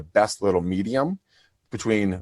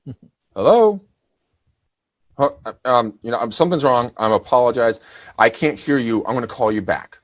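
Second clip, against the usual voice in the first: looping distress beacon message; 4 dB louder than usual. Retold or imitated. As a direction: act like the line is broken. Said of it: "pre-recorded message that I recorded".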